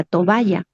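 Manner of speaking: "toalla" said with an added b, to-ba-lla; nonstandard tovalla. Shown as a demonstration. Teacher citing an accepted informal word, "toalla" pronounced tobaya. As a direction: put a b sound inside "toalla": tobaya. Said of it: "No decimos toalla".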